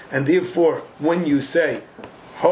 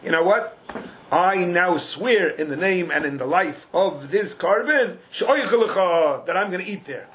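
acting out Reuven. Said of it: "Reuven goes over to Shimon".

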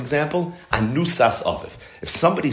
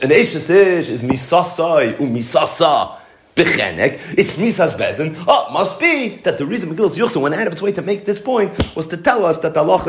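laughing; 4 semitones higher than usual. Real, not acted. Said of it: "laughs through the punchline".

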